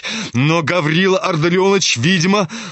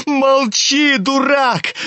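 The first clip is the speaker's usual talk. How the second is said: put-on much higher, boyish yell; Kolya shouting; 8 semitones higher, slower than usual. A narrator's reading. Younger brother yelling at Ganya to shut up. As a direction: shout him down. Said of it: "кричал Коля".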